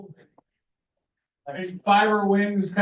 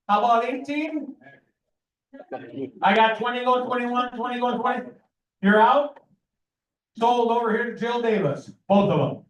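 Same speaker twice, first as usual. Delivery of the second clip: rapid rhythmic auction chant; auctioneer; faster than usual. Real, not acted. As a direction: rattle off bids like an auctioneer. Auctioneer calling bids.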